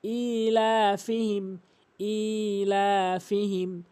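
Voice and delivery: ইলা ফিহিম with long ই and লা; slow recitation drill; slow ilafihim. Shown as a demonstration. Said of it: "এক আলিফ টেনে".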